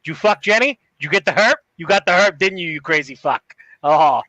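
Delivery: put-on joking Boston accent; hammed-up Boston local. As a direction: rib a buddy in broad Boston. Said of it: "I'm reading this in a Boston ac".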